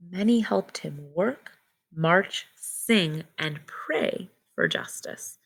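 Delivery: clear, measured read-aloud storybook voice; reading to children. Acted. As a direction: read the book to the class slowly. Teacher reads picture book aloud.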